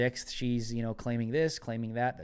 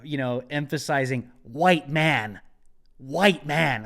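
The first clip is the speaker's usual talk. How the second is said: "white man" punched loud and falling; mocking emphasis; 6 dB louder, slower than usual. Commentator mocking the congresswoman: loud, punched "white man". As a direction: lean hard on "white man" to mock her.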